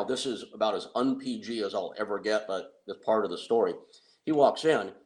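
ordinary talk

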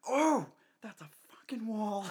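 hushed, stunned whisper after hitting a wall; shocked whisper. Retold or imitated. Janice walking into a wall, whispering in shock. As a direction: breathe it out in disbelief. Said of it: "And she went".

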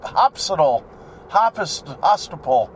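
put-on hopsital, hopist-, hostile stumbling like a child; kid mispronunciation. Shown as a demonstration. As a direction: trip over hospital like a kid. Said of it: "It's like hop".

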